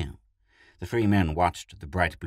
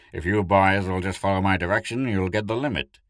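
proud smile; 4 semitones higher, 8 dB louder than usual. A narrator's reading. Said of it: "he smiled proudly".

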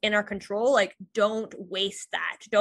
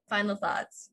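whisper; 5 dB quieter, slower than usual. Real, not acted. Pauses to think before closing.

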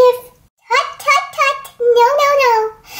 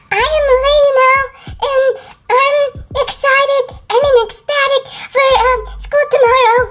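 higher, quick, prim lady voice; 6 semitones higher than usual. Shown as a demonstration. Sam showing her friends her new lady voice, higher and prim. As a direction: put on the refined girl, brightly. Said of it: "I mean".

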